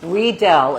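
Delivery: "Riedel" said REE-del. Shown as a demonstration. Explaining the German company name, Riedel as REE-del. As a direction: stress the long ee opening "Riedel". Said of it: "the I E is pronounced E".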